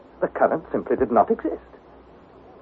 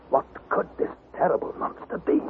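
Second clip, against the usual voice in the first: hushed whisper; 6 dB quieter than usual. A narrator's reading. Narrator whispering in awe at the monster, hushed. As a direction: whisper it, awed and uneasy.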